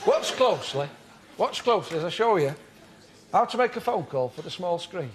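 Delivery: mild Yorkshire comic character voice; a lightly voiced Northern comic persona; John Shuttleworth. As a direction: play the earnest amateur acting tutor.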